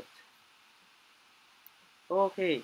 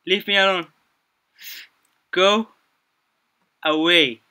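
loud, higher panicked pleading; frightened yelling; 5 semitones higher, 10 dB louder than usual. Real, not acted. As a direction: shout her off in fear. Being chased, begging.

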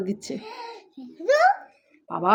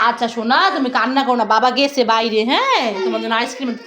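gentle reassuring mother; soothing; 2 semitones lower than usual. Real, not acted. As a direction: coo to calm the little one. Mother soothing crying child.

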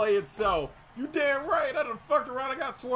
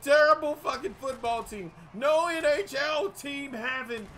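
furious rant; 3 semitones higher than usual. Real, not acted. Gamer cursing out Kansas City after a play, furious rant. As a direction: rant in a rage, landing hard on each insult. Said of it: "I've never been so mad".

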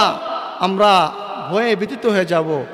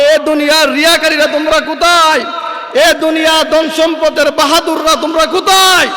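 higher, ringing challenge; stern calling out; 5 semitones higher than usual. Retold or imitated. Allah calling out to the boastful, ringing challenge. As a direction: summon the show-offs to answer.

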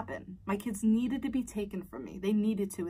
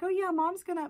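mock sister-in-law; 11 semitones higher, 4 dB louder than usual. Sister-in-law voiced in story.

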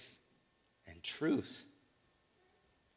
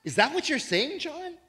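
disbelieving question; 10 semitones higher than usual. Retold or imitated.

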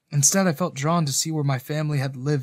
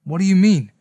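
louder, anxious question; confused dread; 5 semitones higher, 7 dB louder than usual. A narrator's reading. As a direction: ask in confused alarm. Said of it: "confusion mixing with dread".

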